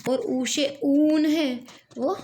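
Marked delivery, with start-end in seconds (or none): 0.2-1.2 ऊ से ऊन with a slow, long ऊ; दीर्घ ऊ धीरे से. Shown as a demonstration. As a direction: stretch the ऊ in ऊन. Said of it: "वो लॉन्ग वोवेल है".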